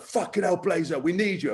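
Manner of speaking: retold pep talk, not full volume; fired up. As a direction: imitate a coach rallying his player. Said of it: "he was getting so fired up".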